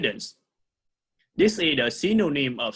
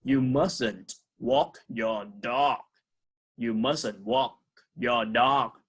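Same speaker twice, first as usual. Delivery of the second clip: slow model reading; 2 semitones lower, slower than usual. Shown as a demonstration. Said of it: "And this sentence".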